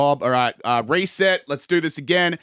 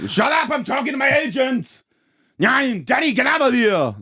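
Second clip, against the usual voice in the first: high yelled outburst at someone off mic; sudden high shout at an intruder; shouting offstage; 12 semitones higher than usual. Acted. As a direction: bark at a pest in the room.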